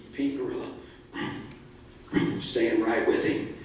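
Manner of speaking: low, hushed suspense; ominous narration. A narrator's reading. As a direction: drop low and soft for the looming threat. Gorilla ominously close behind in chase.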